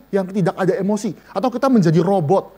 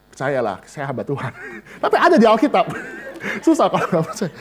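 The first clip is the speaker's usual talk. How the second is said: joking through laughter; amused, laughing preacher; 2 semitones lower than usual. Real, not acted. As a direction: chuckle at your own claim. Joking about being a pastor.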